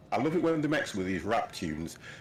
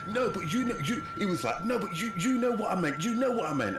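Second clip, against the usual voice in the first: higher, pleading mock friend's voice; a mildly hammed-up friend insisting; imitating Kish; 12 semitones higher than usual. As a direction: act out the friend protesting he meant well. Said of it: "And he was like".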